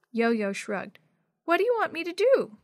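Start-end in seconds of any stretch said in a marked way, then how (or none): 1.4-2.6 put-on high-pitched little kid question; reluctant small child voice. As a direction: ask like a sulky little one. Sad young Yo-Yo answers.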